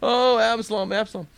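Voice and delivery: loud, high-pitched wail; mock crying. David learns his son is dead, acted crying wail. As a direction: wail it out, hammed-up grief. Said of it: "And he starts crying".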